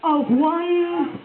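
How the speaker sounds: poem recital. Acted. Poet reciting her new poem to the audience, measured. Performs a spoken word poem.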